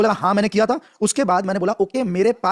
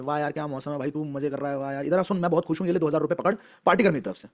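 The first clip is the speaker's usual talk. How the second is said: cheerful greeting; 5 semitones lower, 6 dB quieter than usual. Shown as a demonstration. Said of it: "एकदम smile करता हूं".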